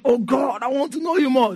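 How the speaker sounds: mock-fervent prayer, rising in pitch; acting out a yearning prayer; earnest prayer. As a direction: plead upward as if praying in church. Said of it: "Be praying in church".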